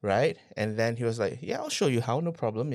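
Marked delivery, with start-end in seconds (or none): 1.4-2.7 put-on a light, casual New Zealand accent, lifted a little higher; offhandedly mimicking the mentor's easy Kiwi reassurance. Mentor promising to teach him, in a hint of a Kiwi accent. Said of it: "in his typical Kiwi accent".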